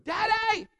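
put-on high, loud shouting child, laughing through it; toddler wail. Little girl shouting for daddy to come back, high and loud. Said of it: "this is what she's doing".

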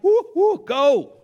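high, loud whooping cheer; excited cheering. Retold or imitated. Proud father whooping at his son's new house, excited cheer. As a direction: cheer like at a ballgame.

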